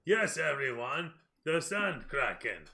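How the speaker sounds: slow, loud ogre proclamation; ogre joining in. Acted. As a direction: echo the acclaim as a slow ogre. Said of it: "The ogre across from him says".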